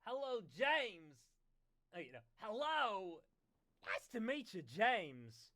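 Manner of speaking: loud hello. Acted. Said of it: "responding loudly".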